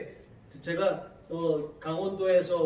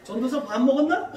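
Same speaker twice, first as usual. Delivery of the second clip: louder and higher blunt Gangwon greeting; curt Gangwon-style greeting; Gangwon dialect; 6 semitones higher, 8 dB louder than usual. Retold or imitated. Gangwon elder greeting the young pastor, blunt Gangwon dialect. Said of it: "이렇게 말을 해요".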